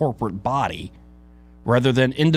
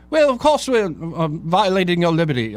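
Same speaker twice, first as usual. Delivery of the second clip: self-declared bad Irish accent; 4 semitones higher than usual. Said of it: "I can't do an Irish accent".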